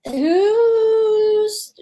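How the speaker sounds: high, rattled inner voice; alarmed. Retold or imitated. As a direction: squeak it out in alarm. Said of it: "And so I thought".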